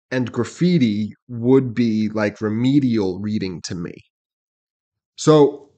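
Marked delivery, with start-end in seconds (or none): 0.1-3.9 reads the lyric slowly, each word laid out; reading the graffiti line again for his co-host, slowly; slow deliberate reread. Shown as a demonstration. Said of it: "And then he says".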